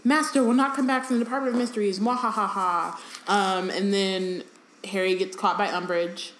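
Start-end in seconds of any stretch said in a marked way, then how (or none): 0.0-3.0 mad scientist. Retold or imitated. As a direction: rush it out, then villain laugh. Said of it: "Creature's like".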